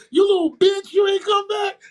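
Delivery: high loud scolding shout; imitating the girls shouting at him; mock angry girls. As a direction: yell it like an angry girl.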